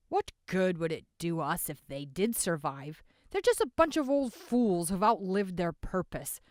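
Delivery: loud, rasped scorn; a hoarse man sneering. A narrator's reading. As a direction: rasp out the contempt. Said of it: "a hoarse voice said".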